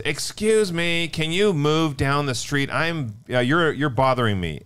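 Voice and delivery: retold yell. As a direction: imitate an annoyed neighbour calling out slowly. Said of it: "she yells out at us".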